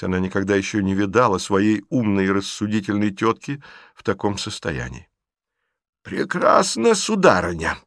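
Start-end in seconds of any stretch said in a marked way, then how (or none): 6.0-7.8 trembling whisper. A narrator's reading. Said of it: "трепетным и прерывистым шёпотом".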